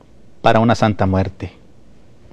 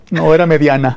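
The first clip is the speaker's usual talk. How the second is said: laughing punchline; 4 semitones higher than usual. Retold or imitated. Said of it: "le dice".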